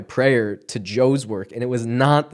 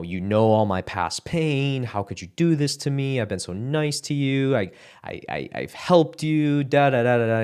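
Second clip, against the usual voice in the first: retold rant; 3 semitones higher than usual. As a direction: run through old grievances as a retold rant. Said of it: "going off".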